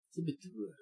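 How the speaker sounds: Saboteur softly, with a French spin; French accent. Pretend. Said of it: "Gotta throw some French spin on that".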